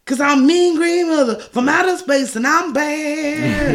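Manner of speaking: slow, high mock monster boast; Audrey II line. Podcaster quoting the plant's song, in a mock monster voice. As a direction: ham up the plant's villain line.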